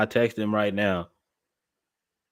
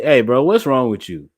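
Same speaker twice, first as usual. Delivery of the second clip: baffled bro; 3 semitones higher, 7 dB louder than usual. Retold or imitated. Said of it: "I'd be like".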